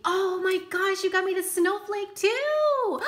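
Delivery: high, loud squeal of delight; thrilled exclamation. Real, not acted. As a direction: burst out, overjoyed. Discovers wished-for stamp.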